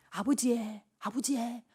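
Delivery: soft, clumsy Gyeongsang dialect; Gyeongsang dialect attempt. Old son calling his dead father, in rough Gyeongsang dialect. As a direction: try a Gyeongsang accent, hushed. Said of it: "경상도 사투리 잘 못해".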